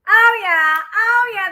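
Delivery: high, loud repeated "oh yeah"; excited affirmation. Real, not acted. Reader reacting to the card, high excited affirmation. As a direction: exclaim it up high with rising excitement.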